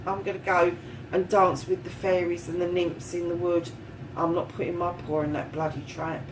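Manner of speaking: lightly voiced bear. A lightly voiced bear telling the reader he's off to dance with the fairies. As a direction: toss off a mild fed-up bear brush-off. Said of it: "That bear, go".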